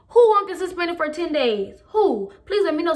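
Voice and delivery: indignant comeback. Retold or imitated. Student to coach threatening suspension, indignant comeback. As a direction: throw the threat back with attitude.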